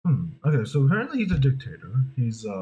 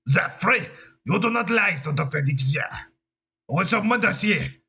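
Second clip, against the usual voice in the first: higher mock-German gibberish sounding French; botched German accent; 6 semitones higher than usual. Trying again at the dictator, botched German accent. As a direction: fumble a fake German accent. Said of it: "I don't know how to do a German accent".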